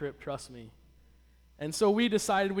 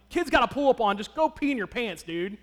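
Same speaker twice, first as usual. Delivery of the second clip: retold frustration; 4 semitones higher, 4 dB louder than usual. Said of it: "I was getting frustrated and mad".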